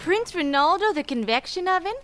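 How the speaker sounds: high breathless princess; hammy stage actor. Acted. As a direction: swoon over him. Princess role.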